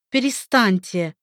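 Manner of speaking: plain reading voice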